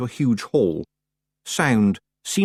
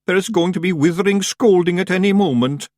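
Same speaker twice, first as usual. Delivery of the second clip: moaning; 9 semitones higher, 5 dB louder than usual. Acted. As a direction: moan in despair. Daft Woolly voice.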